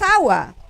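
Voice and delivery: "agua" with the first syllable stressed, Á-wa; "agua" as áwa, accent on the opening A. Shown as a demonstration. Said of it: "debería ser agua".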